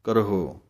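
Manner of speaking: ਕਰਹੋ with sihari on rara; ਕਰਹੋ pronounced carefully, kar-ho; Gurbani pronunciation. Shown as a demonstration. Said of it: "ਇਸ ਤਰ੍ਹਾਂ ਪੜ੍ਹਨਾ ਹੈ, ਰਾਰੇ ਸਿਹਾਰੀ ਲਾ ਕੇ".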